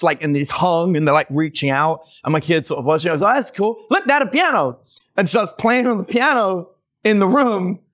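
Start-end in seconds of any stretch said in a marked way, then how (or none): 3.4-4.8 excited little son. Retold or imitated. Son's excited voice in haunted house.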